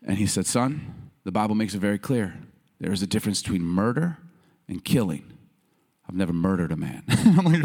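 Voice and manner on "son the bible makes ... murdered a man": low, measured fatherly gravity; real serious. Retold or imitated. Father answering his son's question about killing, real serious. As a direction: imitate a dad answering in all seriousness. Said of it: "he looked at me real serious".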